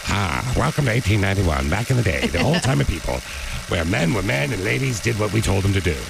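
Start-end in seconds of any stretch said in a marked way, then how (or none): 0.1-3.1 put-on a light old-timey announcer voice; a hint of an olden-days narrator. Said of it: "I got stuck in my old-timey voice".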